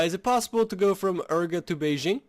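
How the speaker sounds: put-on a brisk, light French accent. Player asking about Beijing in a light French accent. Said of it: "weirdest French accent I have".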